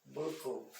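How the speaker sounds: "buckle" split as buck, kle; syllable by syllable. Shown as a demonstration. Teacher showing the separated syllable, "buckle" in two pieces. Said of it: "separei a fra-, a sílaba".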